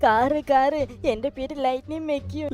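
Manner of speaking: talking car tells the owner its name. Acted. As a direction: speak as the car introducing itself. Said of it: "അവൻ sound മാറ്റി സംസാരിക്കണയാണ്".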